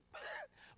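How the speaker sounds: very high, bleating shriek; mock goat scream. Startled prank victim like the commercial goat, mock shriek. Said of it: "the screaming goat".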